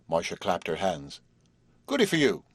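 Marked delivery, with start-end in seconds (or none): 1.9-2.4 high, gleeful little exclamation; delighted. A narrator's reading. Marcia cheering Horace for agreeing to come, delighted.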